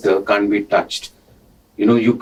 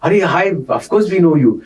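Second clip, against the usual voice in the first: higher, quick imitated greeting; hurried high-pitched retold hello; Anjali; 7 semitones higher, faster than usual. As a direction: imitate a wife greeting someone, fast and high. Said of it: "his wife Anjali was there".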